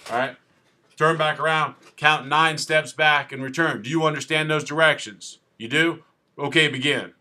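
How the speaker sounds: lightly voiced officer rattling off set directions; officer giving instructions. Officer instructing a driver on walk and turn, lightly put-on official manner. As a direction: recite roadside test orders as an officer. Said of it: "'cause this is how I talk".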